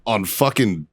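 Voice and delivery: incredulous, climbing in pitch; baffled retort. Retold or imitated. Marine retelling his confusion at an Army medic, baffled. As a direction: retell a baffled comeback, rising high at the end.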